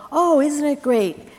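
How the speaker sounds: high, loud, hammed-up cheer; mock gushing. Host mocking how people cheer the cure, high and loud. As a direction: parody shallow celebration. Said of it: "sometimes we go".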